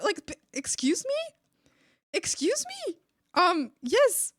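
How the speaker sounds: high-pitched indignant disbelief; annoyed. Retold or imitated. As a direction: sputter in offended disbelief, re-enacted. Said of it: "I got real annoyed at her".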